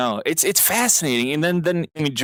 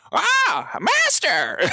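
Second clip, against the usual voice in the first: shouted master; much slower than usual. Retold or imitated. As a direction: cry out to the master, arms flapping. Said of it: "flapping his arms going".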